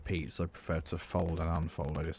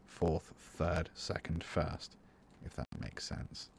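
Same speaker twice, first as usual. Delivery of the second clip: softer with each count until whispered; fading to a whisper; 6 dB quieter, slower than usual. Shown as a demonstration.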